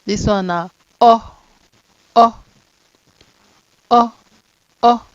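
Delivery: long O vowel drilled; long O sound. Shown as a demonstration. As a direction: hold the O long. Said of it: "letters with the same sound".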